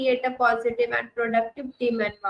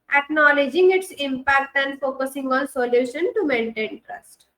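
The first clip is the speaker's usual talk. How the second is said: model answer; much slower than usual. Shown as a demonstration. Reads model answer slowly.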